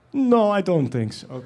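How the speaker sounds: high, drawn-out mock refusal; dismissive director. Director turning down an accent, lightly dismissive imitation.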